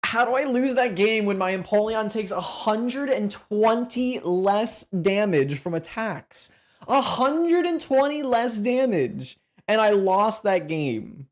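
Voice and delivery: high, slowed-down indignant protest; incredulous complaint. Real, not acted. Gamer protesting a loss despite big advantage, incredulous complaint. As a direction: stretch the figures in high disbelief.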